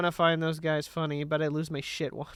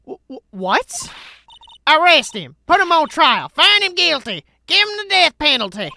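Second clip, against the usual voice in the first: yelling out accusations, higher; loud accusing shout; 6 semitones higher, 11 dB louder than usual. Acted. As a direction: point the finger and shout. Reads accusing character.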